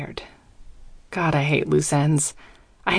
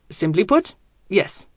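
put-on German accent. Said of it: "with an almost audible shrug".

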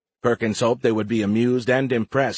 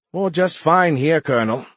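mirthful; 7 semitones higher, 5 dB louder than usual. A narrator's reading. Pilot answering her colonel from a swamp, mirthful. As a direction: sound tickled by your predicament. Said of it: "Irene's voice was mirthful".

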